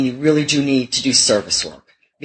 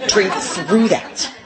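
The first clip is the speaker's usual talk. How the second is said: stretched very slow, laughing through it; drawn-out mock husband; 5 semitones higher, much slower than usual. Husband repeating his advice, slow and laughing. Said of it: "and he said".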